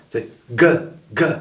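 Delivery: gueux with a strong, punchy g; forceful g in ce gueux; powerful G. Shown as a demonstration. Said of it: "s'entraîner à faire ce".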